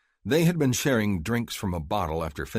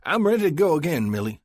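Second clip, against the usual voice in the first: put-on brash young cowboy announcing himself, much higher and louder; cocky young Texan; 10 semitones higher, 7 dB louder than usual. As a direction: swagger in, announce it loudly to the table. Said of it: "and announced".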